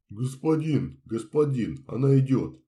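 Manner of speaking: loud, high eager calling out; excited shout. Acted. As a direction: call out to the master breathlessly. Servant runs up calling master.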